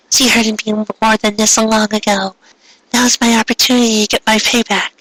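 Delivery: lightly voiced vengeful girl; gloating villain. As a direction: savour the revenge.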